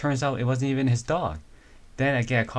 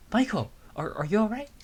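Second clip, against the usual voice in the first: much higher, urgent call across the water; worried calling; 12 semitones higher than usual. Acted. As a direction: reach him with a worried shout. Rescuer calling to the kid.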